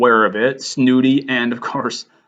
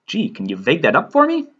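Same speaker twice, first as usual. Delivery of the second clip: Buffy; 4 semitones higher than usual. Acted. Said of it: "a little bit of a valley girl".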